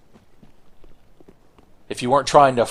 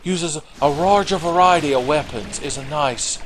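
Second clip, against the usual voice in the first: mock Japanese accent, pitched up at first; Miyazaki; 5 semitones higher than usual. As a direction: imitate a game director in a Japanese accent. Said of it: "Miyazaki is like".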